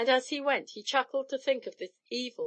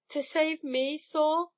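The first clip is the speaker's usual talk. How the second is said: begging; 7 semitones higher, slower than usual. Acted. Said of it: "she begged".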